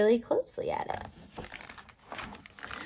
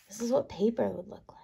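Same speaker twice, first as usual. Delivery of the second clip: whisper; 7 dB quieter, faster than usual. Acted. Reading aside to children.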